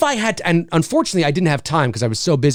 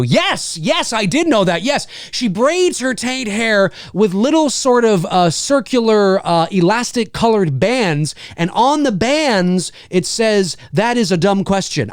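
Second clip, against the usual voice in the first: higher, slow, mock-earnest answer; 3 semitones higher, slower than usual. Streamer answers a troll question, mock-earnest and slow. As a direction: play along as if it's serious, slowly. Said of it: "in a Dave McCrae way".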